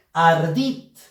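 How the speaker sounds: "Ardit" with the force on "dit"; stress on last syllable. Shown as a demonstration. Teacher demonstrating an acute word, stress on "dit". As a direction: land firmly on the "dit" of "Ardit". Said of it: "Fuerza de voz en la sílaba dit".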